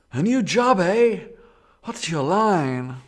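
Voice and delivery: high, loud New England driver voice; a rural New England driver apologizing; New England accent. Acted. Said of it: "It's a New England accent".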